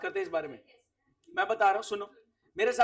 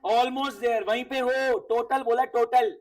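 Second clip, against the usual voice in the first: urging hint; 5 dB louder, slower than usual. Real, not acted. Teacher hints at the answer.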